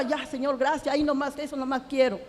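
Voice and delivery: soft, hushed prayer, a little shy; quiet prayer. Retold or imitated. A woman praying to God not to be moved, softly. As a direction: murmur a small thanks to the Lord. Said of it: "yo hablaba".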